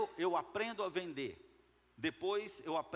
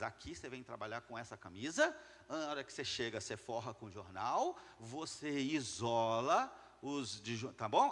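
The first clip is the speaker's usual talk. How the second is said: lower-pitched boss laying down steps; acted instructions; 6 semitones lower than usual. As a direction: instruct the crew step by step, pitched low. Acts boss instructing painters.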